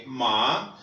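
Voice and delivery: माँ को चीनी ma की तरह, नीचे सुर में; माँ का प्रश्नवाचक कण, छोटा और धीमा; Chinese ma. Shown as a demonstration. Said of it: "एम ए कैसे प्रोनाउंस करेंगे?". (चीनी ma का उच्चारण)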